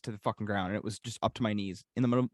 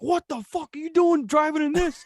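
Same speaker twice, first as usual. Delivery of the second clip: much higher, louder, laughing through it; laughing dad quote; 6 dB louder than usual. Retold or imitated. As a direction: voice the angry dad while cracking up.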